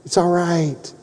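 retold bravely upbeat comforting; brave reassurance. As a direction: put on a brave face to comfort her. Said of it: "And I'm bravely".

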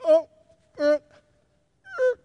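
small imitated infant fussing; little mock whimpers from the crib; baby whimper. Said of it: "first a little whimper".

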